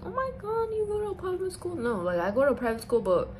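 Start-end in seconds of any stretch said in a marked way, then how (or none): 0.0-1.7 snooty shock. Retold or imitated. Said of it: "people that's like".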